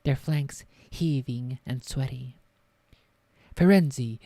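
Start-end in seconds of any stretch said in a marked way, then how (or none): 3.5-4.2 loud, angry call of the name; thundering call. A narrator's reading. Centaur Bane challenges Firenze, thundering the name. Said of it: "Bane thundered".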